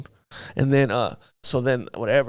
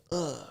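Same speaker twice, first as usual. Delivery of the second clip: pained grunt; 2 semitones higher, 9 dB quieter than usual. Retold or imitated. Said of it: "like that".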